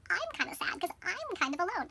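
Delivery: lightly acted self-pity with swooping pitch; mock sad. Lonely Thumbelina to herself, mock sad. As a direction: play a mildly forlorn little heroine. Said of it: "starts to get kinda sad".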